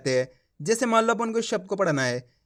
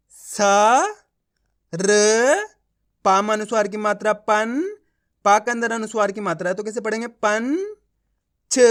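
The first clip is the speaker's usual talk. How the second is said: sounding out letters. Shown as a demonstration. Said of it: "देखो किस तरीके से है।".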